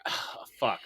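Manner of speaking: under-the-breath curse, no voice; whispered curse. Retold or imitated. Told to use the official site, a whispered curse. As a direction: whisper it, resigned. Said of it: "and I was like".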